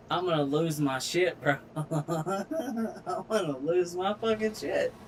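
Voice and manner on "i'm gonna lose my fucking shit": slow, laughing through rage; laughing in frustration. Real, not acted. Gamer losing patience with crane, laughing frustration. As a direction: laugh it out slowly, near breaking.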